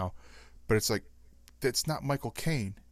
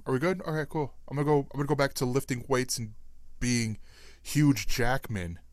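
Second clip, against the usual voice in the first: bad Australian accent; 2 semitones higher than usual. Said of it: "my horrible Australian accent".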